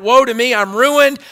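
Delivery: hammed-up cry of ruin; crying out in woe. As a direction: retell Isaiah's despair. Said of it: "he cried out".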